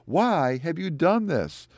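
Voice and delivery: high-pitched, drawn-out cry of protest; preacher voicing a panicked crowd's plea; mock panic. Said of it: "They panic".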